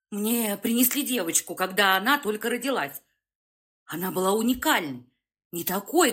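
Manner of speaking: rushed and halting speech; a scared old professor rushing; hurried, flustered. Acted. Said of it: "Торопливо, сбивчиво говорил профессор".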